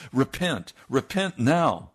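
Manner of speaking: stern command. Retold or imitated. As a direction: insist without budging. Preacher commands repentance.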